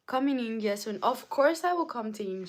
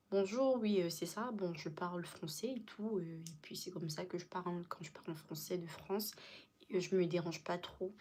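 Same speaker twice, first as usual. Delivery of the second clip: softer, quick French-from-France accent; natural French accent; 3 semitones lower, 7 dB quieter, faster than usual. Shown as a demonstration. Showing viewers the accent from France, natural French. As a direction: speak casual French like someone from France. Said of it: "like, the natural accent".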